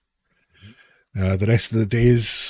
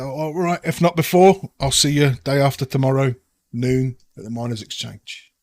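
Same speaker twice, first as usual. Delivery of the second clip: put-on Cockney accent. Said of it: "doing my dreadful Cockney accent".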